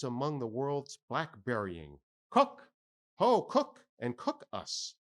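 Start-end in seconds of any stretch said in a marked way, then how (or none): 2.3-4.9 high, loud hail to the cook; calling out. Acted. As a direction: shout across the deck.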